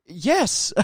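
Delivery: can't finish the line for laughing; laughing through quote. Retold or imitated. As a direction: quote squeezed out through laughter, high and loud. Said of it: "And he goes".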